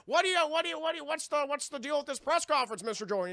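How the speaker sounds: high, laughing reporter voice. Retold or imitated. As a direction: ask it while cracking up. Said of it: "reporter asks question".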